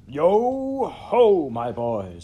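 loud, high "yo ho" dropping at the end; big rolling jovial call; jovial hail. A narrator's reading. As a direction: hail the lads heartily. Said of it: "fat, jovial voice".

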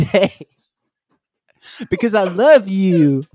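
woo her like a self-loving city bro; Chad Charming voice. Acted. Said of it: "that's what Chad would sound like".

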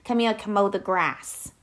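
put-on trashy New Jersey accent. Shown as a demonstration. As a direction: call Kimberly over in Jersey accent. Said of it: "more trashy and talk in a Jersey accent".

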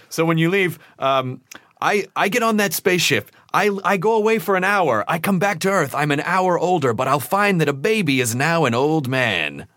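imitated dramatic pitchman, slowing on the last line. Ad man describing a spaceship trip near light speed, dramatic. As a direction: tell it like a dramatic ad narrator. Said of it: "he had this very dramatic voice".

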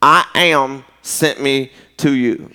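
slow, measured reading of God's words; solemn scripture reading. Acted. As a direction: read it out slowly, weighting each phrase.

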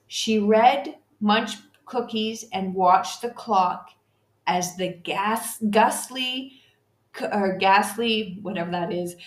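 steady, measured poem recital; poem reading. Acted. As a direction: read the verse to listeners like a storyteller. Reads a poem aloud.

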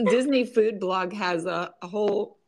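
slightly croaky, catching throat; frog in throat. Real, not acted. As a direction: speak through a frog in the throat. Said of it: "I still got that frog in my throat".

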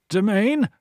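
rasping. A narrator's reading. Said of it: "the Hargath rasped".

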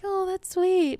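high-pitched sweet cooing; touched reaction. Retold or imitated.

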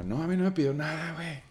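high, dismissive lady's reply; shop lady voice. Retold or imitated. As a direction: brush him off like a bored clerk. Retelling the shop lady's denial. (voz de señora despectiva)

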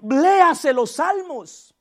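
"léase los salmos" drawn out slowly; slow emphatic. Real, not acted. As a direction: stretch each word to insist. ("léase los salmos" muy lento)

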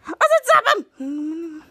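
drawn-out, insistent command; exasperated order. Acted. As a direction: repeat it slowly, out of patience. Captain repeats ignored order.

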